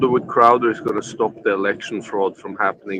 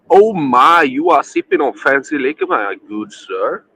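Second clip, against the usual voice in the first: high, loud mock-impressed exclamation, slowing at the end; hammed-up formality, starting high then settling down; mock-formal gentleman; 5 semitones higher, 6 dB louder than usual. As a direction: tease like an over-polite gentleman. Mock-formal teasing over fancy liquor.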